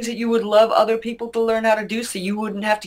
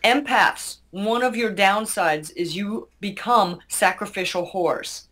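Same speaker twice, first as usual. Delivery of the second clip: slow and clear. Real, not acted. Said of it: "say it really slowly and clearly".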